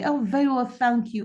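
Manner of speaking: ordinary talk, nothing marked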